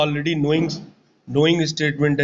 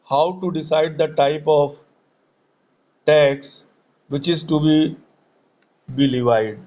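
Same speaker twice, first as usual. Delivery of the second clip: dictating slowly. Shown as a demonstration. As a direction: dictate it slowly, word by word, with pauses. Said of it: "Please write down this question". (धीरे-धीरे रुक-रुककर लिखवाते हुए)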